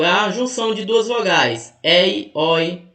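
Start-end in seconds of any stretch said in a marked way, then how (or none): 1.8-2.9 "ei, oi" with open vowels, éi and ói; open diphthongs. Shown as a demonstration. Teacher giving examples of diphthongs, "ei, oi" pronounced open. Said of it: "elas são abertas com os ditongos ei e oi".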